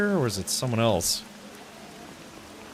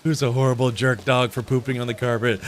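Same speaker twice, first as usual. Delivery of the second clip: put-on doggy baby talk. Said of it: "He'd be like".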